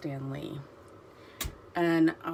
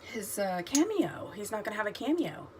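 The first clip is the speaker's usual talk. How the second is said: high, hurried fretting; distraught worry; 5 semitones higher, 4 dB quieter than usual. Retold or imitated. Worrying aloud during the movie, high and fretful. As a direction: fret as if about to cry. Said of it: "And I was like".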